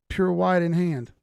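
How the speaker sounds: loud, slow, grand reading of Pure white in hand; dramatic announcement. Pretend. Streamer reading a viewer's name aloud, a loud, slow dramatic announcement. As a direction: boom it out like a title card.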